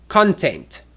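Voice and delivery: "content" stressed on the first syllable; CON-tent, weight on the front of "content". Shown as a demonstration. Teacher introducing the internet word, "content" stressed at the start. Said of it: "closer look at stress".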